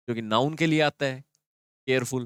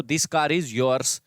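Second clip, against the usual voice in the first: slow contrast; much slower than usual. Shown as a demonstration. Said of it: "कार पहले लिख दो".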